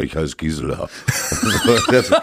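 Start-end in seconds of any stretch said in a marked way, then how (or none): 0.0-0.9 extremely deep bass voice. Retold or imitated. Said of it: "ich hatte immer eine sehr tiefe Stimme".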